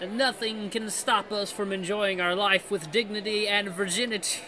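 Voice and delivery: pompous speech in mock French; French Mickey. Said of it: "I'm trying to do French".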